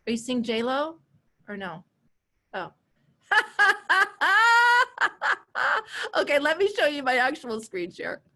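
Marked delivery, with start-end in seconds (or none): 3.3-6.1 high, loud burst of laughter; real laughter; big laugh. Real, not acted. Laughing at her own mistake.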